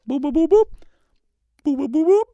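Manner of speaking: squeaky high-pitched boops. Shown as a demonstration. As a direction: chirp it high like a beeper. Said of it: "shoot directly out".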